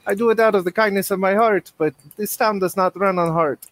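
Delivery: high, persuasive, oily benefactor voice; smooth crime boss. Acted. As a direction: sweet-talk them with mock kindness. Filippo's smooth persuasive pitch.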